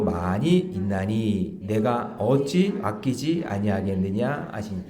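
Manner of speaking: slow reading aloud. Shown as a demonstration. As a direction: read the verse slowly together. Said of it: "다 같이 시작". (천천히 함께 성경 봉독)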